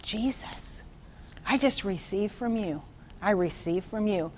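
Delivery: soft whispered prayer to Jesus; prayerful whisper. Acted. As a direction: breathe the prayer quietly. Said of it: "are we just gonna go".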